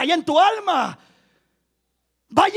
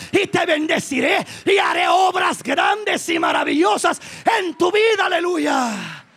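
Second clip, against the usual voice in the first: fiery preaching. Acted. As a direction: preach it with full force to the congregation. Preaching at full force.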